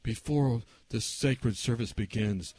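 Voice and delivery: slow, low, soft and solemn; restrained version. Retold or imitated. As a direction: say it discreetly in church. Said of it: "it wasn't like".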